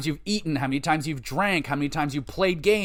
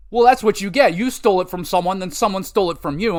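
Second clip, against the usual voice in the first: louder, quick told-you-so scold; 4 semitones higher, 5 dB louder, faster than usual. Retold or imitated. Player scolding the kid who stole the game, loud and fast. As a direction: lecture the brat sharply.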